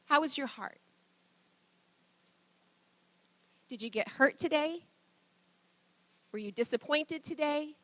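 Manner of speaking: soft, unhurried questions; gentle parental check-in. Acted. Parent to child at the end of the day, gentle. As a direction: ask tenderly, leaving room to answer.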